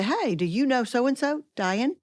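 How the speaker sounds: lightly acted, lilting hello; friendly introduction. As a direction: act out introducing one acquaintance to another. Acting out a friendly conference introduction.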